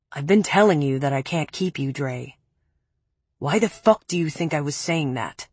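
a hint of a low, cold man. Preppy voiced lower than narration.

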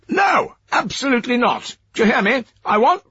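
high, loud, tinny voice on a line; barking through a crackly phone; shouting robot phone voice. Acted. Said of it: "robot voice".

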